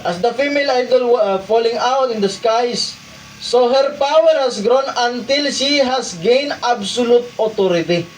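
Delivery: reads the highlighted English passage aloud; preacher reading scripture notes aloud. Shown as a demonstration. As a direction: read the quoted text out to the congregation. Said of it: "Nabasahin na lang natin yung mga highlighted".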